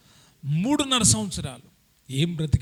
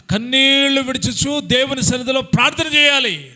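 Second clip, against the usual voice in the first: preaching at full force. Acted. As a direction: drive each promise home to the congregation. (ఉద్రేకంగా ప్రసంగం)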